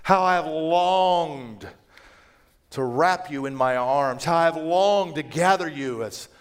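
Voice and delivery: longing lament. Acted. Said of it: "he says".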